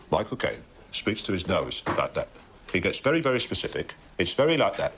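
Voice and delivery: nasal Cockney actor; Michael Caine. Shown as a demonstration. Friend correcting a rival's impression, nasal Cockney. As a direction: speak through the nose as a Cockney star. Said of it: "this is how Michael Caine speaks".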